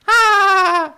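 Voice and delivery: a sharp high yelled "Ah!"; short high shout; loud cry. Acted. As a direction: burst out with a high battle cry. Video intro game character laugh clip.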